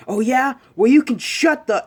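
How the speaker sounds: high, loud acted yelling; furious high-pitched retort, played out; pissed off. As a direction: explode with a heated comeback. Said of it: "now pissed off".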